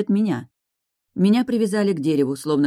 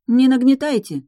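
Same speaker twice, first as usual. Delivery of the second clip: loud protest; 8 semitones higher, 6 dB louder than usual. A narrator's reading. Heroine protests to the rider.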